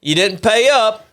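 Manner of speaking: put-on debt collector's accusation; mobster threat. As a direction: play a mock mob shakedown. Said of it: "maybe mob relations and said".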